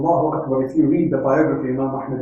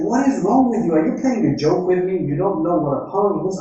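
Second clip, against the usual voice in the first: mock angry master; 3 semitones higher than usual. Master scolding his servant over sour pomegranates, mildly mock angry. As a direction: play the irate master, raised but still storytelling. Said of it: "So he's like".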